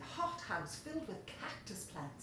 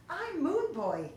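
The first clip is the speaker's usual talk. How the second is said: smiling; 8 semitones higher, 7 dB louder, slower than usual. Acted. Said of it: "the new boy smiled".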